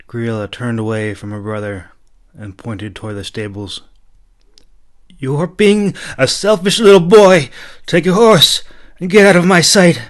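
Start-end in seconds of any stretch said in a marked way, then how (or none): 5.2-10.0 high, loud stern command. A narrator's reading. Princess commanding her brother to leave, loud and stern. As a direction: order him out of your sight. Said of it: "she commanded".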